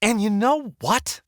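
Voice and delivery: high angry shout. Acted. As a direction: shout with fury. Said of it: "She's shouting now".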